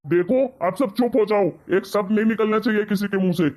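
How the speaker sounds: fed-up father ending the fight; stern command. Acted. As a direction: cut everyone off, laying down the law. Father silencing the family quarrel.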